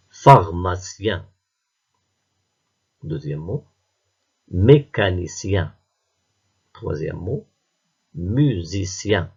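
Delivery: drawn-out, deliberate dictation; slow dictation. Shown as a demonstration. Teacher dictating words to pupils, slow and clear. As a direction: stretch each word for the listeners. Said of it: "On écoute".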